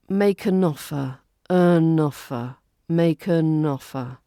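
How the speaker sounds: "an" said as a quick un; "make an offer" with a schwa "an"; weak schwa an. Shown as a demonstration. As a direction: weaken "an" to uh-n. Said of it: "the an in this phrase becomes the weaker form".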